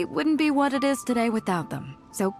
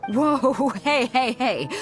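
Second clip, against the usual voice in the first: firm, louder interjection; breaking up a quarrel; 3 semitones higher, 3 dB louder, slower than usual. Acted. Captain cutting in on two quarrelling villagers, firm. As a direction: step in and halt the squabble.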